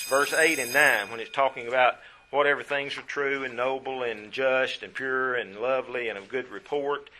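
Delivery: loud sermon delivery, driving each phrase home; full-voiced preacher reading scripture aloud; preaching at full force. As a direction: preach it out to the congregation.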